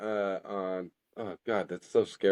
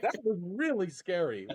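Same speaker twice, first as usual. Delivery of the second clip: higher-pitched, real laughter through the words; laughing unease; 4 semitones higher, 4 dB quieter than usual. Real, not acted. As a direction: say it while cracking up, half spooked. Real laughing fright at friend's phrase.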